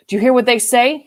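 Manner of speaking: groom's mild excited question. A narrator's reading. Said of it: "he said in some excitement".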